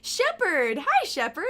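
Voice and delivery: calling out. Real, not acted. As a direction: call the name out across the room. Calling out to a character.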